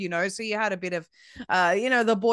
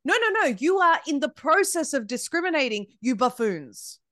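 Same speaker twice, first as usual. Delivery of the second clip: high, emphatic correction, dropping on the insult; exasperated scolding; 4 semitones higher than usual. Acted. Speaker rebukes absent diversity advocates, exasperated scolding. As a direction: cut them off with an indignant high-pitched telling-off.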